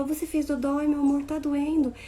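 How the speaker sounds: a hint of soothing a hurt child; gentle comforting. Shown as a demonstration. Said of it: "É olhar pra mim e falar". (mãe calma falando com a filha machucada, com voz suave)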